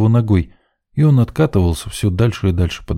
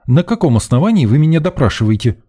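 higher, indignant challenge; angry; 7 semitones higher than usual. A narrator's reading. Journalist challenging the policeman, mild angry indignation. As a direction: demand your rights, annoyed. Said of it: "сердито уточнил журналист".

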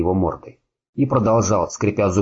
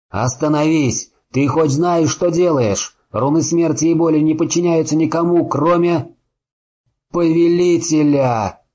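terrified plea; 7 semitones higher than usual. Acted. Luke pleads in horror.

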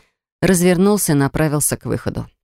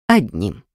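much lower, rapped-out last word; clipped final word; 8 semitones lower than usual. A narrator's reading. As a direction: drop it like a verdict. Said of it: "отчеканила Снежана Борисовна".

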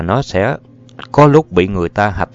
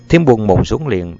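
usual speaking voice

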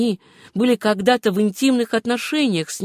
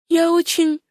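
higher, tender woman's voice; affectionate; 8 semitones higher than usual. A narrator's reading. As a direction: confess fondness gently, pitched up. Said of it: "сказала Сюзанна ласковым голосом". (высокий, ласковый голос)

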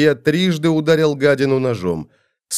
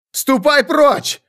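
high, slow croak, not his own voice; croaking strange voice; much slower than usual. A narrator's reading. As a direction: croak it out in a strained voice. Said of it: "каркнул я не своим голосом".

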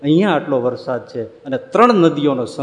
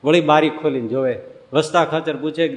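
normal talking voice

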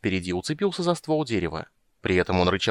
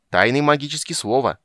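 high, loud, self-important creature voice; proudly proclaimed; proud declaration; 5 semitones higher, 5 dB louder than usual. A narrator's reading. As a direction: present it grandly as your achievement. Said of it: "с гордостью заявила она".

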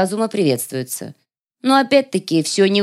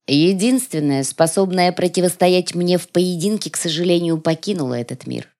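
higher, softer sorrowful queen; sad queen; 7 semitones higher, 4 dB quieter than usual. Acted. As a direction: sigh out the loss, sadly. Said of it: "с грустью в голосе добавила". (с грустью в голосе)

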